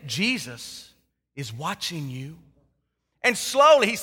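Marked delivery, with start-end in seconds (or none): 0.1-2.4 low, soft, slow eerie voice; mysterious voice. Acted. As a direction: drag it out like a ghost. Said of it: "He hears it again".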